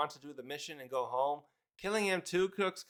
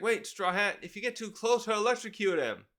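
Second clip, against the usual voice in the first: higher-pitched mock warning; lightly acted cry of caution; retold urgent warning; 5 semitones higher than usual. Haruden warns Straw Hat about electrocution, mildly urgent warning.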